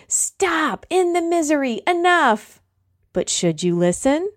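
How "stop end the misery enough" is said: high, pleading whimper; begging brain voice. Retold or imitated. The brain begging you to quit the plank, high pleading whine. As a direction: beg to make the pain stop. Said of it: "It's like your brain is begging with you".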